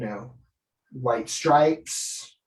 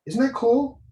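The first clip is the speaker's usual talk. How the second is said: excited; 10 semitones higher, 4 dB louder than usual. Real, not acted. Excited aside.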